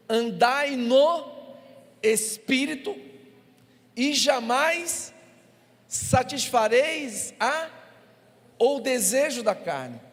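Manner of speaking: slow, loud, high proclaimed verse; preaching scripture. Acted. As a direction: proclaim every word. Reading scripture with force.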